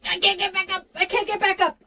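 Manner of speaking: high, strained cry for help; hammed-up panic, voice high; mock distress. Acted distress bit.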